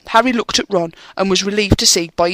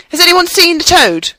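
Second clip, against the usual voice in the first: put-on higher, brisk bossy girl voice; 10 semitones higher, 4 dB louder than usual. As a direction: take charge like a know-it-all. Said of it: "She had a bossy sort of voice".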